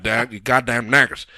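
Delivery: a hint of an angry good old boy; imitating a racist redneck. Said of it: "he talks about all the things".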